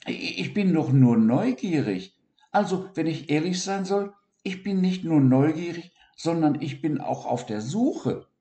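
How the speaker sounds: high, eager dormouse voice; Siggi voice. Acted. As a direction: explain in a small high rush. Siggi explains himself.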